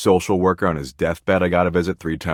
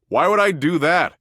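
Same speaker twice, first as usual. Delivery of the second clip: high-pitched, incredulous question; 12 semitones higher, 3 dB louder than usual. Acted. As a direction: pitch way up, scoffing at the idea. Scoffs at loving humans.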